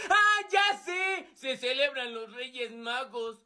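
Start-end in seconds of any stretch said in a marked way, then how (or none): 0.1-1.3 high, stretched-out eureka; sudden realisation. Acted. Friend guessing what is celebrated, excited. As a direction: burst out as if it just clicked. Boy thinks he has guessed.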